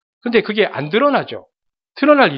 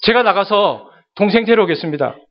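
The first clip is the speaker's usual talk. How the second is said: pleading son; 3 semitones higher, 3 dB louder than usual. Pretend. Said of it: "이렇게 나와야 아들이죠".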